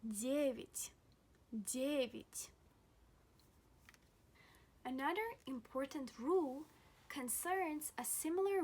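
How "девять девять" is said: "девять" said DYEH-vit; the second vowel of "девять" reduced to a short i; careful teaching "девять", stressed first syllable and light final i; unstressed Ya as I. Shown as a demonstration. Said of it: "we pronounce it as E".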